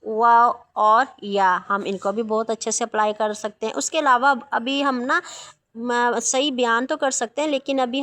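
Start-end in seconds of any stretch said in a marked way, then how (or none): 0.1-1.6 वाव और या drawn out slowly; slow recital of the long vowel letters. Shown as a demonstration. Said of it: "हरूफ मद्दा अलिफ".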